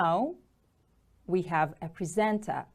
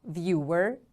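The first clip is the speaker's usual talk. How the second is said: "Viewer" with the stress on VIEW; first-syllable stress; 2 semitones lower than usual. Shown as a demonstration. Teacher models the word for repetition, "Viewer" stressed on VIEW. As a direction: lean on the start of "Viewer": VIEW-er. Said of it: "The stress is on the first syllable".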